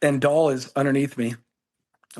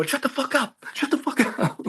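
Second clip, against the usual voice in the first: mock hushed scold; 12 semitones higher than usual. Mocking buddy's hushing back.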